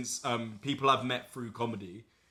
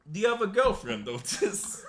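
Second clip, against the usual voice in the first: imitated Ukrainian accent, higher at the start; 7 semitones higher than usual. Colleague asking if he's taken, imitated Ukrainian accent. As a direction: put on a Ukrainian woman's accent. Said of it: "I can't do the accent".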